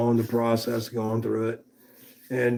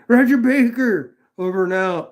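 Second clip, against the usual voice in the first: radio call sign-off; 8 semitones higher, 5 dB louder than usual. Acted. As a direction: sign off like an old radio operator. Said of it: "it's a military thing".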